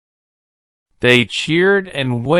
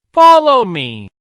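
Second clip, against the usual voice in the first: put-on high, louder boy's call; eager call; 10 semitones higher, 5 dB louder than usual. A narrator's reading. Boy leads George to the dragon, an eager call. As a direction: call him along eagerly. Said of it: "said the boy".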